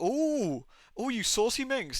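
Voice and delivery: high, teasing ooh, playfully scandalised; mock flirty tease. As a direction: coo it like a cheeky tease. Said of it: "You're like".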